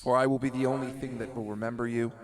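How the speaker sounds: slow, grand doom-laden villain proclaiming; dramatic villain speech. Acted. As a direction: intone it like an ancient god demanding names. GM tests voice effect dramatically.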